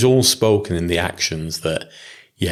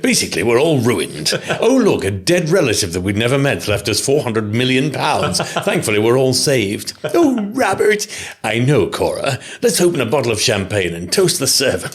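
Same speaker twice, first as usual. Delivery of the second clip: mock melodramatic aristocrat, higher; hammed-up posh drama; 5 semitones higher than usual. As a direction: overplay a posh period drama. Parody of Downton plot dialogue.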